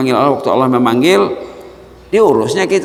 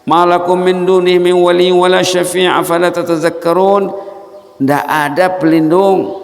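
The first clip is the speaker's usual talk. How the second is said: high, loud rebuking questions; impassioned preaching; 8 semitones higher, 5 dB louder than usual. Acted. Preacher rebuking the congregation, loud and high. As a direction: scold the congregation from the pulpit.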